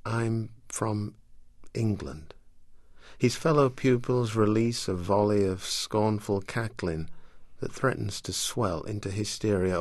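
measured literary reading voice; story reading. Acted. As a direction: read it like an audiobook. Author reads from her novel.

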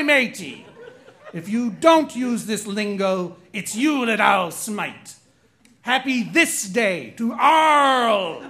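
aggressive pirate. Acted. Host reads pirate trivia rhyme as aggressive pirate. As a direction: growl it out like a pirate captain. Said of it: "a really amazing and aggressive pirate".

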